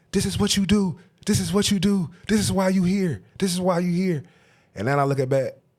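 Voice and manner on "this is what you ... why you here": high-pitched, hollering yell. Recalling his coach hitting his head, the speaker imitates the coach yelling. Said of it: "He was just yelling".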